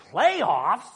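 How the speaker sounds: high, loud disbelieving "Playoffs?"; mock the coach's stunned outrage; incredulous coach. Pastor imitating coach Jim Mora, incredulous shout. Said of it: "and just goes".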